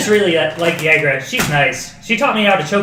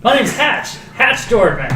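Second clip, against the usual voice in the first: bright, eager, chipper; 4 semitones higher than usual. Acted. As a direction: answer cheerfully, out of place. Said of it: "the chipper voice".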